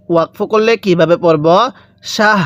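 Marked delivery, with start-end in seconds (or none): 2.1-2.4 শাহ with a light র and a full, clear হা; pausal শাহর. Shown as a demonstration. Teacher shows the stop form with a light র. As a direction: stop on শাহ, soften the র and sound the হা fully. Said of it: "রটা হালকা উচ্চারণ করব".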